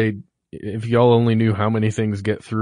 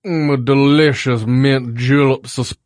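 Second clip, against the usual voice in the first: lightly put-on southern drawl, slow; hint of a mixed-up Southern accent, slow; mock southern accent; 3 dB louder than usual. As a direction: savor it like a hammed-up Southern gentleman. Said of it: "you are mixing up some accents there".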